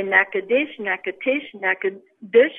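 Natchitoches as NACK-uh plus changing endings, dish or tish; varied endings. Shown as a demonstration. Tour guide listing acceptable versions, varied endings. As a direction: keep NACK-uh in Natchitoches, vary the last syllable. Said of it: "whatever you want to say at the very end".

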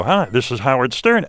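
imitating a nervous radio greeting; lightly tightened on-air hello; mock nervous young broadcaster; tight nervous voice. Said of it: "my voice was very tight".

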